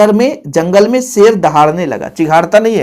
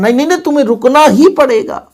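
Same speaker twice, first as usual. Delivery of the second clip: higher-pitched pleading insistence; insistent; 6 semitones higher than usual. Shown as a demonstration. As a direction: refuse to let them leave. Teacher acting insistent refusal.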